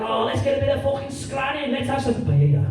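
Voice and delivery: mock Scouser, Spanish word in Spanish accent; Scouse with Spanish accent. Dad's friend Lee suggesting food, mock Scouse-Spanish accent. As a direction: lay on Scouse, switch to Spanish for the dish. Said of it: "the most Scouse man that has ever existed".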